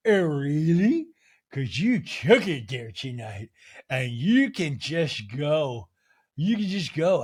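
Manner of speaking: slow, drawn-out mock British accent, lightly done. Host imitating Meredith snapping back at Angie, mock British. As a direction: imitate Meredith's British lilt, stretching the words. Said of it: "She's crying in British".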